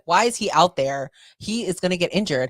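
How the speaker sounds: a touch of motherly alarm; imitating worried mom. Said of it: "she was so worried".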